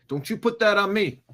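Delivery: repeating the movie line through a laugh; laughing Denzel impression. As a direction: break up laughing mid-impression. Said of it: "watching a Denzel clip".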